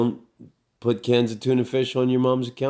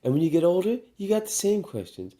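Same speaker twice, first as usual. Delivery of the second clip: mock grandma quote; 6 semitones higher than usual. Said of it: "retelling grandma's line".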